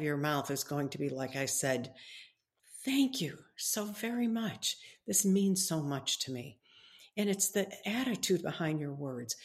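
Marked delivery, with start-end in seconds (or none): 2.8-6.6 grateful thanks. Shown as a demonstration. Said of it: "if you're truly grateful".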